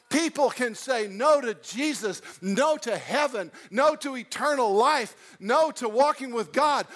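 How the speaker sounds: rising preaching crescendo on no; building emphasis. Real, not acted. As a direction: stack the no's, building to a shout.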